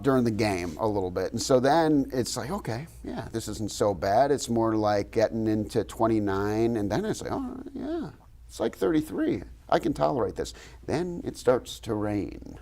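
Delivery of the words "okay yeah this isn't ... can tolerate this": self-reassuring. Retold or imitated. Retelling his own thoughts.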